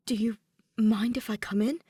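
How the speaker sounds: whispered, hesitant ask at the door; timid whisper to a friend; hushed request. Acted. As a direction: ask to come in under your breath. Saihara asks at Kaede's door.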